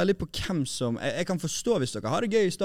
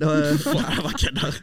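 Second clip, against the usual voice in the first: laughing; 3 dB louder, much slower than usual. Real, not acted. Laughs off crude joke.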